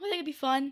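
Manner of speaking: voice cracking upward mid-line. Talking about a planned campaign he'd enjoy running, voice cracking. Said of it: "Pardon my voice crack".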